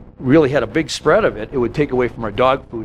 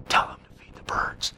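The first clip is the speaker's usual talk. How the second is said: soft unvoiced whisper; 11 dB quieter than usual. God whispering to the weatherman, an unvoiced whisper. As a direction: whisper it into his ear. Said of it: "God's whispering in, in his ear".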